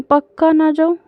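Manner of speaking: put-on hopeful kid checking if she really can stay home; childlike eager "really?"; eager hopeful question. Child hopes to skip school.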